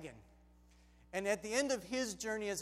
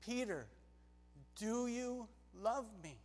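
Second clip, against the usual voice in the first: gentle Jesus; 7 dB quieter than usual. Acted. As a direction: ask it tenderly and unhurried. Jesus repeats his tender question.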